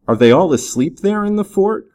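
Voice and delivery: high-pitched, mildly amazed question; narrated astonishment, voice lifted high; amazed cry. A narrator's reading. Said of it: "cried Dick, amazed at the boldness".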